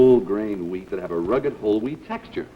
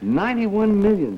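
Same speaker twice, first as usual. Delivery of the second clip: incredulous, higher and louder echo of the figure; surprised echo; 7 semitones higher, 5 dB louder than usual. Acted. The spokesman, hearing the survey figure, in astonished disbelief. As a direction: gasp out the number in disbelief.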